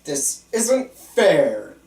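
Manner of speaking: patient protesting to his doctor, slow and loud. Acted. Patient protests being watched.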